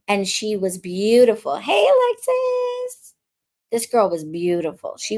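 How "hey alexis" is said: much higher, slow, drawn-out sing-song hello; high stretched "Hey, Alexis" called across the crowd; sing-song greeting. Retold or imitated. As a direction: call the name out like a bright passing greeting.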